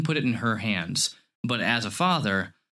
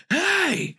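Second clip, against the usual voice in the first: big man voice. Retold or imitated. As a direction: bark it out to stop a kid cold. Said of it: "yelled at my friend's child".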